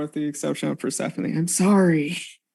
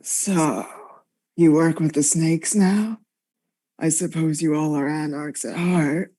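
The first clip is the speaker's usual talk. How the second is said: gravelly raspy voice. Acted. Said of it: "you hear a gravelly and raspy voice".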